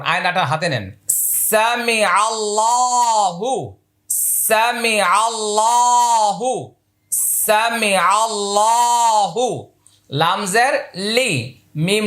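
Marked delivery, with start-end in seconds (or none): 1.5-9.7 সামি আল্লাহু drawn slowly and clearly; slow model recitation. Shown as a demonstration. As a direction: enunciate slowly for imitation. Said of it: "আমার মুখে লক্ষ্য করুন". (ধীরে স্পষ্ট উচ্চারণ)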